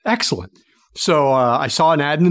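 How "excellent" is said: sarcastic. Retold or imitated. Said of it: "And I'm like".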